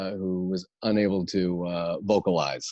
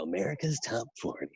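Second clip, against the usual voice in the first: softer, slightly raised countdown-host voice; Casey Kasem; 4 semitones higher, 8 dB quieter, faster than usual. Acted. Host announcing his countdown show, light radio impression. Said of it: "I know it's Casey Kasem".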